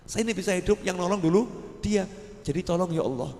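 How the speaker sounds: a pious man interceding for his rescuer, softly; humble prayer. Acted. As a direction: pray quietly for the man who saved you. Pious man praying to God.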